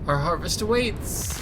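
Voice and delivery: grand proclamation. Acted. Mister Kerr proclaiming to the town, slow and grand. Raises hands, proclaims to crowd.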